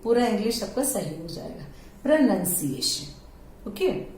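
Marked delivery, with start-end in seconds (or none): 2.0-3.0 slow pronunciation, second syllable "nun". Shown as a demonstration. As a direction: model pronunciation slowly as pro-nun-see-ay-shun. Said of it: "If that you are telling correctly".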